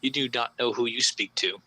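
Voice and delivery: a hint of a booming, ominous cult leader; booming menace. Cultist bears down on the intruder, low measured threat. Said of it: "says to you with that booming voice".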